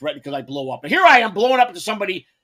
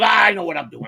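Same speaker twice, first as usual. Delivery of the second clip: dismissive shout. Retold or imitated. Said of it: "He goes".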